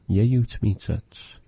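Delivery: "Yeyutz mitzatz" said slowly and clearly; slow model phrase. Shown as a demonstration. Teacher modelling the phrase for the learner, slowly. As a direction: lay out "Yeyutz mitzatz" syllable by syllable. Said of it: "if I say yeyutz mitzatz".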